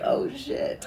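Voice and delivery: a hushed, unvoiced oh shit; breathy whispered alarm. Hitchhiker seeing the threat, hushed laughing whisper. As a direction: mutter it in alarm, half laughing.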